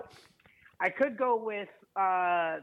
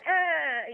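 mock cry of pain; 8 semitones higher, 4 dB louder than usual. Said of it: "I went".

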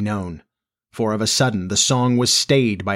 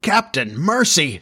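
high, pleading whimper; 6 semitones higher than usual. A narrator's reading. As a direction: beg for mercy, all of a tremble. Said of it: "Starkey whimpered, all of a tremble".

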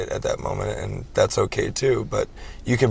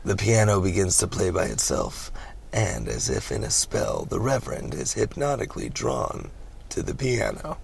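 soft, lowered stage-direction read; hushed film narration; movie narrator, eerie; 2 semitones lower, 7 dB quieter than usual. Acted. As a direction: narrate as if under a spell.

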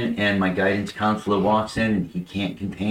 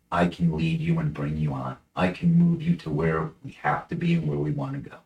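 getting emotional; 3 semitones higher, 4 dB quieter than usual. Real, not acted. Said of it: "Sorry, I got a little bit emotional there".

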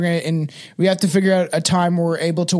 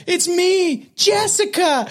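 much higher, squealed name; high girly voice; 11 semitones higher, much slower than usual. Retold or imitated. Retelling the body-swap movie, a high girly squeal. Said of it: "he's like".

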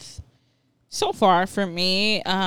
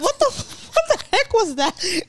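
laughing disbelief; 12 semitones higher than usual. Real, not acted. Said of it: "I'm like".

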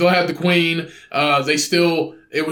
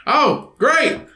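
mock sarcastic reply; 10 semitones higher than usual. Sarcastic meeting member.

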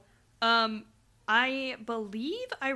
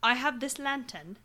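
lightly put-on British accent as a bluffing villain. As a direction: explain the plan in mock British. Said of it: "I only have two British accents".

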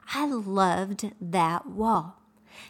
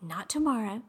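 scripture quote; 3 semitones higher than usual. Retold or imitated. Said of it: "the Bible says".

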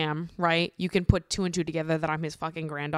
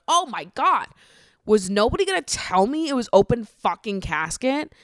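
mildly outraged, higher-pitched retold protest; indignant disbelief; 5 semitones higher, 4 dB louder than usual. Granddaughter blindsided by the open casket, indignant disbelief. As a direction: replay being blindsided with mock indignation.

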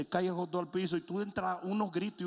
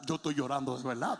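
put-on low, laughing whimper of a kid; mock the child's teary protest; sobbing child; 7 semitones lower than usual. Child protests to his father that he is really crying, whimpering. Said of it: "tú decías".

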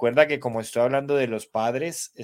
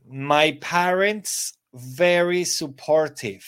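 slow, careful prompt read; slow read-aloud; 4 semitones higher, 4 dB louder, slower than usual. Shown as a demonstration. Teacher reading the exercise prompt to students, slow. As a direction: draw it out for the class. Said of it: "A ver, los leo".

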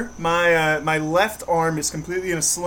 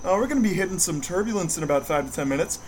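pilot announcement; faster than usual. Retold or imitated. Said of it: "you have the pilot come on".

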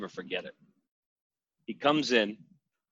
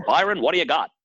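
imitating Mean Gene; 5 semitones higher, 3 dB louder, faster than usual. Byron retells Mean Gene ordering soup.

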